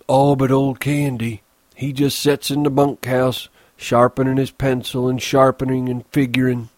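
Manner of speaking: lightly voiced Lenny; Lenny, childlike. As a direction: chatter like an eager child. Lenny character voice.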